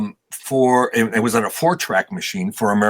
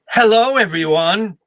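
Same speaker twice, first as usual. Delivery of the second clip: higher, slow, showy greeting; flamboyant loud hello; 9 semitones higher, 4 dB louder than usual. Retold or imitated. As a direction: sing out a grand entrance hello. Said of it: "announced himself with a loud".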